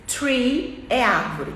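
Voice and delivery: "tree" bem devagar, com t duro; slow tree. Shown as a demonstration. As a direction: arraste "tree" com t, sem sopro. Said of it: "exemplo muito básico". ("tree" lento com t)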